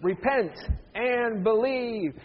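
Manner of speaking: firm "Repent", pause, long-held "and believe"; rally everyone to say it slowly and firmly; emphatic group recitation. Shown as a demonstration. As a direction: punch "Repent", stretch out "believe". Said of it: "Let's say it one more time".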